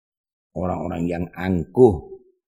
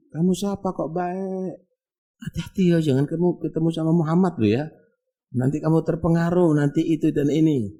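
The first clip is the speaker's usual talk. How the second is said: higher, wary voice of the blind man; suspicious blind beggar; 7 semitones higher than usual. Acted. Blind beggar warning his kind feeder, high and suspicious. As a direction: warn him off Muhammad with suspicion.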